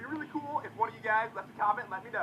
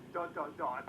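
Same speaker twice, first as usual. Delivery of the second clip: softer, low dramatic dun dun dun; mock suspense sting; 6 semitones lower, 4 dB quieter, slower than usual. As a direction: tease the big reveal like a movie sting. Mock suspense before a reveal.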